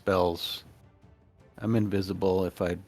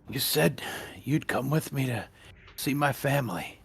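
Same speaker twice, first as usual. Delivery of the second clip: whisper; 6 semitones lower, 6 dB quieter than usual. Acted. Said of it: "I whisper as you go by".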